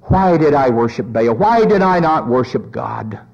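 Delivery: low, sinking acted regret; subdued lament. Jezebel in hell repeating her regret, low subdued lament. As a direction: drop low into mild remorse. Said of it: "if we could hear her cries".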